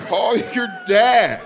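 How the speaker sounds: high, slow, stretched white woman voice; mock white woman. Comic repeating his imagined brush-off, mock white girl confidence. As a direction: draw it out with hammed-up confidence. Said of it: "That is some white woman".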